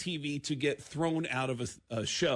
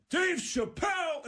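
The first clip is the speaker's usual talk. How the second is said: excited call; 12 semitones higher, slower than usual. Retold or imitated. Players calling out excitedly.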